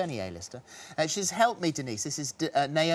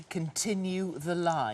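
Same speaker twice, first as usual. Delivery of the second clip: mock solemn quote; 3 dB quieter, much slower than usual. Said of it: "The nation's favourite agony aunt is saying".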